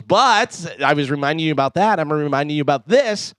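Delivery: upbeat sponsor read. Acted. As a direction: sell the shoes like a live radio spot. Reads sponsor ad.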